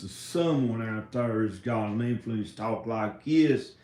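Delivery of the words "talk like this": one version of a country accent. Shown as a demonstration. Vlogger comparing different country accents, country accent. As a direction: say it with a country twang. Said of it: "different country accents".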